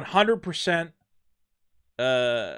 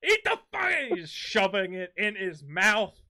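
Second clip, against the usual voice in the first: furious dad shout; 6 semitones higher, 4 dB louder than usual. Acted. Father screaming at his son to eat the corn, furious yell. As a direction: yell it higher and louder at the kid, laughing at the end.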